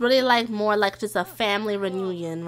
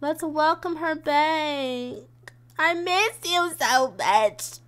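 pretend-gushing, stretched-out words, pitched up; gushing reunion greeting; 5 semitones higher, much slower than usual. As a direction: play up a drawn-out welcome back. Pretend greeting on seeing her again.

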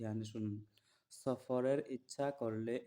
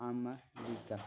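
slow recitation; slower than usual. Shown as a demonstration. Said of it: "ঠিক কি?".

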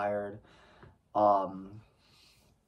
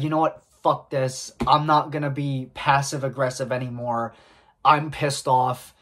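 louder angry outburst that peaks on the last line; snapping in anger; 2 semitones higher, 6 dB louder than usual. Retold or imitated. Driver finally losing it at the customer, loud angry outburst. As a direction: blow up and yell your name at her. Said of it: "I just snapped".

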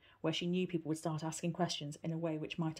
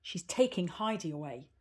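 mild shout; 4 dB louder than usual. Acted. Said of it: "he shouted".

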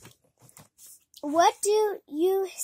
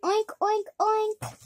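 pig oinks; 5 semitones higher, 4 dB louder than usual. Pretend. Pig noises while reading.

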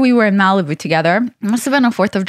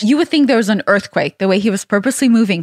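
ordinary talk, nothing marked

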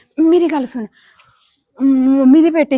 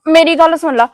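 louder, pressing demand; urgent insistence; 3 semitones higher, 4 dB louder than usual. Acted. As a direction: insist he bring it home. Wife urgently instructs husband.

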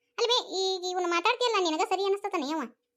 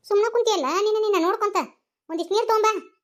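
raised, louder, urgent order; urgent scolding; 3 semitones higher, 5 dB louder, faster than usual. Acted. To an idle onlooker as someone feels faint, urgent scolding. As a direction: scold them into hurrying.

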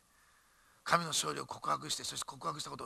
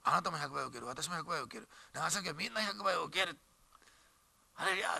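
declaring faith. Shown as a demonstration. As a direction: lead the congregation in a confident declaration. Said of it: "やりましょうかね".

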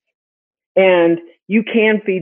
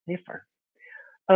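whispered punchline; 11 dB quieter, much slower than usual. Real, not acted. Host whispering the answer to viewers, slow and hushed.

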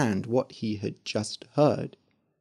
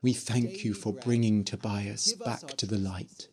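soft, breathy whispered thanks; whispered prayer; 3 semitones lower, 9 dB quieter than usual. Acted. Father whispering his thanks to God at the door. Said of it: "he whispered".

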